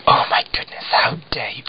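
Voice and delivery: breathy, gasped pretend indignation; gasp, then play at being scandalised; joking mock outrage. Woman teasing the waiter who undercharged her, mock outrage. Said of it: "like, jokingly".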